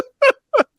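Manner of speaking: high-pitched fake sobbing; mock crying. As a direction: break into comic sobs. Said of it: "Just crying".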